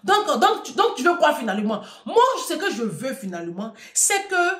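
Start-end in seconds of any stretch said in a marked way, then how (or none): 0.0-1.8 higher, insistent heckling "donc, donc"; mock exasperated question. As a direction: voice the crowd demanding an answer. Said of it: "les gens vont dire".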